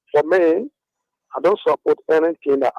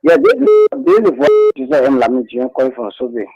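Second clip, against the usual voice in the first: over the phone; 5 dB louder than usual. Real, not acted. Caller speaking through phone line.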